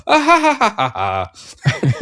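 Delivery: high, forced fake laugh. Shown as a demonstration. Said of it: "re-record that, like, after the fact".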